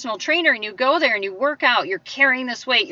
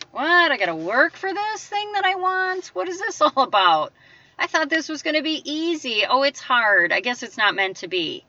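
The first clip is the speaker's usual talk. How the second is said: a higher, whining lazy-person voice, lightly put on; mock-whiny complainer, rising on each protest; 4 semitones higher than usual. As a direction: whine like someone who hoped life would be easy. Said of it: "talk like that".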